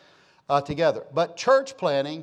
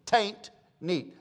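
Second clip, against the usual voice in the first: imitated East Texas twang; 3 semitones higher than usual. Preacher repeating it for city people, East Texas twang. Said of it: "say it this way in her neat, uh, East Texas, uh, twang".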